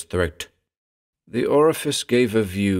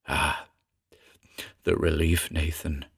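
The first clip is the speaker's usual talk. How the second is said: soft, lower sigh of relief; 4 semitones lower, 6 dB quieter than usual. A narrator's reading. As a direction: let it out as an exhausted sigh. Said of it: "Callum sighed".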